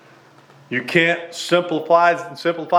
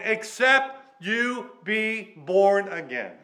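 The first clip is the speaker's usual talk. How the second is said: "except" stressed, then each word slow and deliberate; 3 semitones higher, much slower than usual. Shown as a demonstration. Preacher quoting Jesus to congregation, slow emphatic "except". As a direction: lean on "except" and draw the phrase out, pitched up. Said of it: "I want to emphasize that word".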